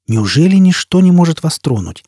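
презрительно. Acted. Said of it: "презрительно бросил".

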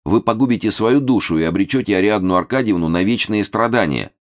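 high, earnest youthful pleading; agitated. A narrator's reading. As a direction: plead urgently to talk him out of it. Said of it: "очень волнуясь". (взволнованно уговаривает высоким голосом)

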